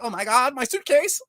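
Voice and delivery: high-pitched mock-flustered nerd; pretend scrawny nerd. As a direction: squeak it like a panicked weakling. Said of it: "scrawny, looking like".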